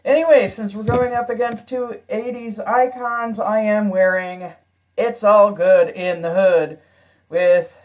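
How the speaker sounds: hollow echo off bare walls; talking in a reverberant stairwell. Real, not acted. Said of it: "I am recording from my stairwell".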